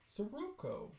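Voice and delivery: lilting mother voice, starting high; mother's casual reminder. Acted.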